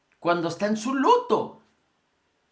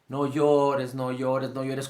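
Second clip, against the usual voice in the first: lamenting comfort; 4 semitones lower, slower than usual. Retold or imitated. To the grieving mother, commiserating, pitying hush. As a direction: mourn along with her as you hush her. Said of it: "lamentándose juntamente con la mujer".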